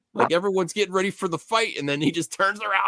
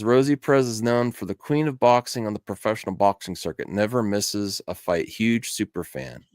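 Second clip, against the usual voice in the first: mock announcer read; 7 semitones lower, 3 dB quieter than usual. Reading comment aloud in a voice.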